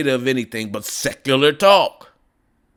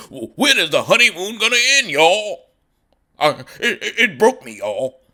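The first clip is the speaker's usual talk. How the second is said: mock whine; 5 dB louder than usual. Mocking Kyle's complaint.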